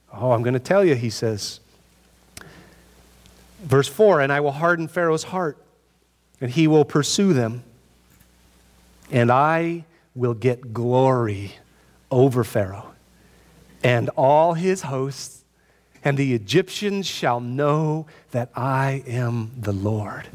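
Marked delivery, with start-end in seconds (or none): 0.1-0.9 voice of God. Acted. God answers Moses. 4.2-20.3 God declares to Moses, low and solemn. Acted. Voices God's speech in scripture.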